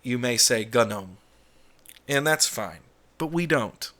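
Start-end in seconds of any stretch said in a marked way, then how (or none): 0.7-1.2 GNOME as "guh-NOME"; two-syllable gnome, G pronounced; gnome with sounded G. Shown as a demonstration. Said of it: "in your language you're speaking".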